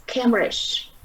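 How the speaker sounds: "Cambridge" stressed on the first syllable CAM. Shown as a demonstration. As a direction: hit CAM in "Cambridge", let "bridge" fall away. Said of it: "we have the first stress".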